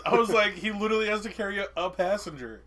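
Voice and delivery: excited disbelief. Retold or imitated. Laughing incredulous retelling.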